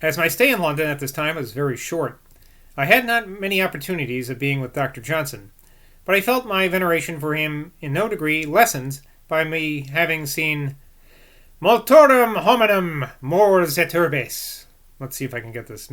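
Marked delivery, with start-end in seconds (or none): 0.0-10.8 measured book narration; formal read-aloud. A narrator's reading. Reader giving Boswell's view of Rousseau, formal read-aloud. 11.6-14.7 "multorum hominum mors et urbes" declaimed slowly and louder; careful Latin. Acted. Reader quoting Horace, slow careful Latin on "multorum hominum mors et urbes".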